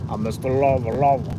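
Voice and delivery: playful Jamaican patois imitation; sing-song Jamaican accent, mimicking the singer; the singer's Jamaican accent. Mimicking the singer for viewers, Jamaican accent. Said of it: "in that accent".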